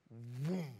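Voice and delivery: low, soft whoom sound effect; low imitated whoosh; imitated stomach noise. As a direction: mimic a muffled inner rumble. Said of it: "his stomach goes".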